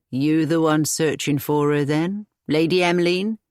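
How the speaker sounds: a plain country cottager reporting his errand; old cottager. Acted. Narrator voices the old cottager.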